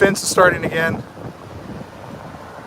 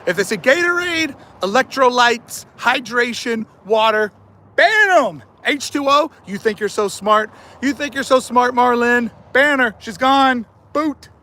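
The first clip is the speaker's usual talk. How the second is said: excited banning spree; 5 semitones higher than usual. Real, not acted. Banning chatters.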